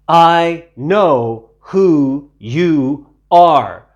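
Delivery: very slow, loud, strange demon voice; menacing demon. A narrator's reading. Unclean spirit telling Jesus it knows him, slow menacing drawl. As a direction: draw it out like a threat.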